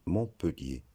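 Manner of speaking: "Montpellier" with schwa, mon-pe-lié; common pronunciation. Shown as a demonstration. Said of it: "La bonne prononciation".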